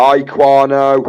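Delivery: booming, very loud, high, eager, enthusiastic voice. Greeting a viewer in the chat again: louder, with more enthusiasm. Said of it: "I'll try that a bit louder to the microphone with a bit more enthusiasm".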